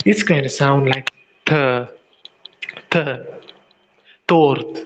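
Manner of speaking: teacher's T demo; Russian T. Shown as a demonstration. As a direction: say th, th, then tort with a crisp Russian T. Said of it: "Tort means cake in Russian".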